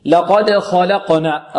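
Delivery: slow لقد خلقنا, thick خ and ق, thin ل; heavy and light letters. Shown as a demonstration. Teacher recites slowly for students, heavy and light letters. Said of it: "الخاء مفخمة واللام مرققة".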